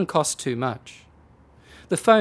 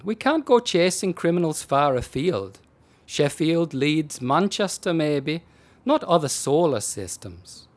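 dry, unbothered explaining; deadpan; 2 semitones higher than usual. Acted. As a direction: say it with a straight face. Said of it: "he explained deadpan".

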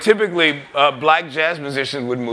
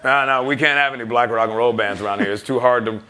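dismissive label man; 4 dB louder than usual. Retold or imitated. Imitating record label rejection.

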